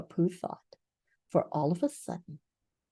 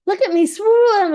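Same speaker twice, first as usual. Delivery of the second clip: high squeaky joey voice; squeaky little Roo; 13 semitones higher, 10 dB louder than usual. A narrator's reading. Roo calling to everyone from the pool, squeaky and proud. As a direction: squeak it like a proud tiny kangaroo. Roo boasting while swimming.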